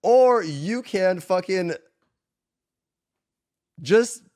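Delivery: very slow, building to a shout; slow build to a loud payoff; drawn out. Real, not acted. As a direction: stretch it, then shout the answer. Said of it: "dramatic pause before the advice".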